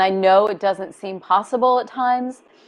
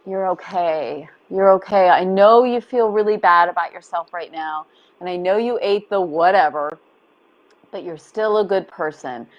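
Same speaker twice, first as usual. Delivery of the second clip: inner mother comfort. Retold or imitated. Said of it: "your inner mother that says".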